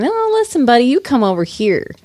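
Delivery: high squeal on the opening, then dropping; mock angry retort. Clue describer voicing the mimed fighter's comeback, mock angry retort. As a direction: fire back in a squeaky mock argument. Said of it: "And he's going".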